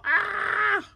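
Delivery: high loud delighted cry; high happy yelp; excited squeal. Real, not acted. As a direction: let out a giddy shout. Gushing over the cute frog.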